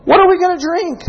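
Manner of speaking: high, whiny mock complaint; mock Israelite grumbling; complaining. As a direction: whine it like a thirsty grumbler. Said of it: "They complained".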